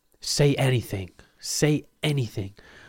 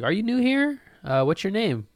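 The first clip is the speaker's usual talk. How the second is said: high, prim voice of a church member; high polite churchgoer; 11 semitones higher, 3 dB louder than usual. Pretend. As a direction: ask sweetly but suspicious. Church member questions newcomer.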